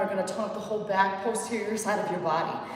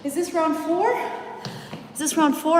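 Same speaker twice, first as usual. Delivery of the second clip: calling out; 5 semitones higher, 4 dB louder than usual. Real, not acted. Calling to class.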